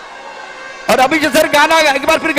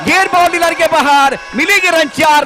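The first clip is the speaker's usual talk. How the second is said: excited cricket commentary; 4 semitones higher than usual. Real, not acted. Boundary hit in tense final over.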